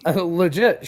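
usual speaking voice

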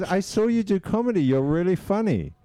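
high falsetto female voice; mock female voice, pitched well up; imitated woman. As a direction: pay a compliment as the high-voiced lady. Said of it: "And she goes".

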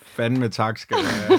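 slow and loud, stressing each word; loud, emphatic thanks. Real, not acted. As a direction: thank them loudly, word by word. (højt og eftertrykkeligt)

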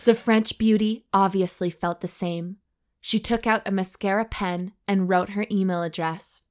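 measured audiobook-style reading; story narration. A narrator's reading. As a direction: read the racy tale out deliberately. Reads the story aloud.

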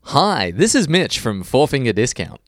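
slow, smooth ad-read voice; commercial voice. Shown as a demonstration. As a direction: read it like a radio ad. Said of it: "Do your commercial voice".

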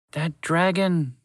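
slow, high mouse voice, seething; bitter mouse. Acted. Mouse cursing the dragon, slow and bitter. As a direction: spit out the hated name slowly.

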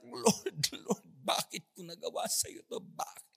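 weeping lament. Retold or imitated. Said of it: "Iyak siya ng iyak".

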